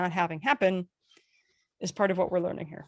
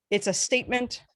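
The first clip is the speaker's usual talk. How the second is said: "statement" held straight, without rise; statement intonation. Shown as a demonstration. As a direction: keep "statement" level to the end. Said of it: "If your tonality is straight".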